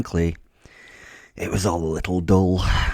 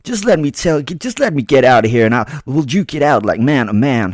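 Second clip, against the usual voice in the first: much higher, louder Jersey gangster shouting a challenge; shouting New Jersey accent; 7 semitones higher, 9 dB louder than usual. Acted. New Jersey gangster accent, shouted challenge. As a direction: gangster shouts at the smiling werewolf. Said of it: "he shouted".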